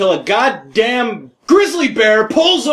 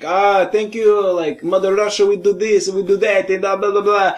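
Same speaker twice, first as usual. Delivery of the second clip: light mock Russian accent; rambling fake Russian accent, trailing into blahs; Robin Williams. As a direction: imitate a comic playing a Russian. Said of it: "pretending to be a Russian guy".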